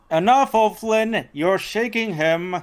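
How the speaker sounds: acted exclamation to stop someone; firm intervention. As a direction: call a friend off firmly. Frank intervenes in O'Flynn's handshake.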